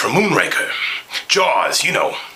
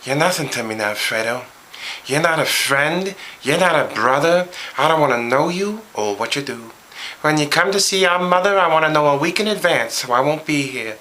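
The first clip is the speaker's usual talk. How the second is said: the younger, smoother Pacino delivery; 2 semitones higher than usual. Shown as a demonstration. Answering how his voice changed, young Pacino voice. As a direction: show how he sounded when young. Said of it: "my voice was more like this".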